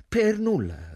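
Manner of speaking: high, loud burst of exuberance; exuberant, affectionate. A narrator's reading. Yvonne answers Hugh after a moment's hesitation, exuberant and affectionate. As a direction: answer brightly and fondly, pitched well up. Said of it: "rispose esuberante, affettuosa".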